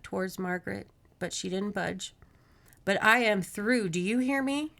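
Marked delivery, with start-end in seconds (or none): 2.8-4.7 firm, rising challenge; fed-up anger. A narrator's reading. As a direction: lay down the law, voice climbing at the end. Margaret confronts the monster.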